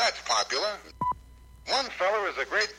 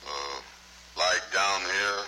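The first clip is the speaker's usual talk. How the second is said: slow, dropped even lower; 9 semitones lower, slower than usual. Acted. Told to get lower, he sinks his voice slowly down. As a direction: go further down, slowly. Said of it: "Get down lower".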